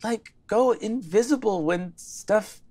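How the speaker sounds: lightly voiced Zelda, high and gentle; a hint of a caring friend; Zelda in character. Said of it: "holds you close and says".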